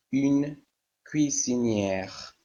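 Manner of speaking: une cuisinière said slowly, every syllable drawn out; slow model. Shown as a demonstration. Teacher showing the class the feminine ending, slow and careful. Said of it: "teacher models the feminine form".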